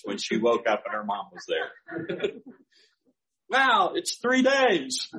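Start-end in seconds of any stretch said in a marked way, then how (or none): 3.5-5.1 slow, higher wondering wow; amazed wow. Real, not acted.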